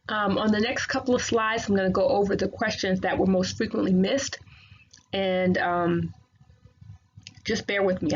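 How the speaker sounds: words shaped around new aligners; talking with braces. Real, not acted. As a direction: speak through fresh Invisalign trays. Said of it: "I, I got braces Invisalign yesterday".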